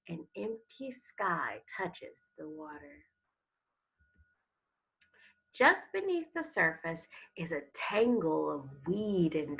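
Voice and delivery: put-on expressive storybook reading to children; story read aloud. Teacher reading a sea turtle story to students, expressive. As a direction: read it like a picture book to the class.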